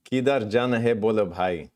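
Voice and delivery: put-on Hindi line in a Desi accent. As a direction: say it like a Desi guy asking directions. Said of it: "Say one sentence in Hindi, bro".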